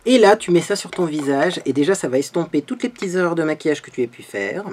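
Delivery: ad pitch. Acted. Parodies a powder ad pitch.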